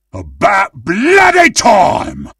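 high-pitched shout of impatience; impatient battle cry. Acted. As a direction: cry it out, punching "bloody".

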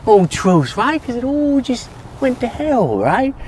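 high, loud ranting; agitated, strained high-pitched tirade; scornful shouting rant. Acted. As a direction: rant back with mocking scorn. Ranting back after death threat.

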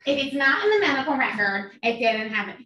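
ominous boss voice; imitating the boss. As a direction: mimic her ominous warning. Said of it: "she said it with this".

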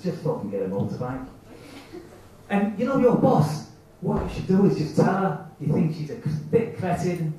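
put-on lightly Italian-accented inner voice; little Italian accent. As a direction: coax with a hint of an Italian accent. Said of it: "in a little Italian accent".

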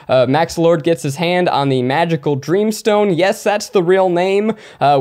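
upbeat, energetic plot rundown; high energy. Real, not acted. Host recapping the movie for listeners, high energy. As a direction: pitch it up with showman's energy. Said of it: "that was the energy I was looking for".

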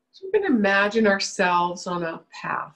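unhurried guiding voice with long pauses; measured meditation leader, settling as each phrase ends; guided meditation. Real, not acted. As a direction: lead them gently into relaxing, phrase by phrase.

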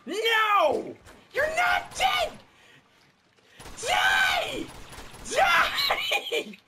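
very high, loud screaming. Real, not acted. Gamer screaming at an enemy that won't die, furious.

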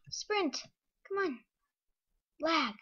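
high, loud frantic yelling; frantic shouting. Real, not acted. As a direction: yell at the game in panic. Desperate escape in game.

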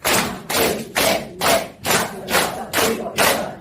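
forceful rhythmic exercise count; loud clapping count. Shown as a demonstration. Leading seniors clapping along, loud steady count. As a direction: call each number loudly on the beat. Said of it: "박수도 같이 쳐야 돼요".

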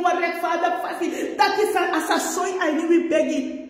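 preacher rousing the church to pray, in a fervent shout; fervent preaching. Acted. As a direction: preach it hard to the congregation. Preacher builds to full force.

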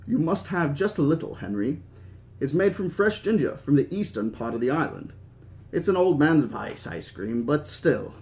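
put-on light, imperfect British accent; Hammond. Host offering Henry ginger ice cream, attempted British accent. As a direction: have a go at a genial British old man. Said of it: "I can't do a good British accent".

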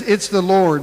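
loud, high cry of recognition; excited shout that it's the Lord. Retold or imitated. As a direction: call it out to the boat. Peter announcing Jesus.

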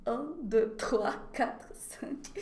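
trois, quatre, cinq whispered quickly; whispered counting. Shown as a demonstration. Teacher whispering past numbers to students, softly. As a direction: whisper through the skipped numbers. Skips non-affected numbers.

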